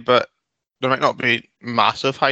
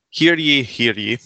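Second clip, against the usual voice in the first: town crier; slower than usual. Acted. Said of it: "Here we go".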